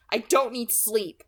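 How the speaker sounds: loud, slow snap; snapped. Acted. Girl snapping at her friend, loud and slow. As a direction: bite off each word. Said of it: "I snapped".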